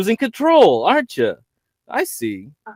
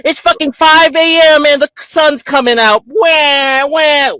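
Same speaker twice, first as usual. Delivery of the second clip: mocking crybaby; 10 semitones higher, 3 dB louder, slower than usual. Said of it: "Are you gonna cry now?".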